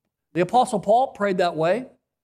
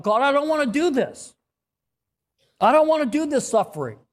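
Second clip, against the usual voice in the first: honest pleading prayer; 6 semitones higher than usual. Pretend. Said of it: "it's okay for you to tell God".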